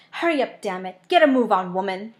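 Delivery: loud impatient yelling; a furious pursuer shouting; angry shout. Acted. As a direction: bark orders at her to hurry. Villain barking orders at fleeing pair.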